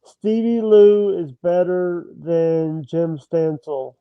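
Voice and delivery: slow, deliberate statement for the record; slow formal declaration; loud and clear. Shown as a demonstration. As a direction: spell it out slowly for the recording. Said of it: "say it loud and clear".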